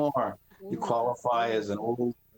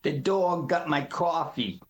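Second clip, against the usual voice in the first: Rhode Island accent; slower than usual. Shown as a demonstration. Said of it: "New York is similar to Cranston".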